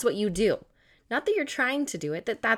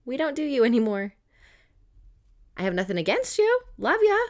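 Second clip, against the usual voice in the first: breezy farewell; 3 semitones higher than usual. Acted.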